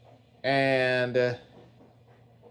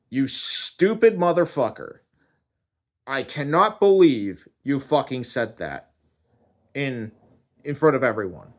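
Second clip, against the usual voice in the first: indignant telling-off, stressed swearing; chewing out. Acted. God chewing out the man for what he said, indignant. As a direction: scold in outraged disbelief. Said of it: "he chews me out".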